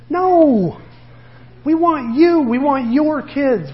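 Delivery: loud, high, drawn-out no; emphatic reassurance. Real, not acted. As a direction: cut in with a high, forceful refusal. Rejects the embarrassed mom's worry.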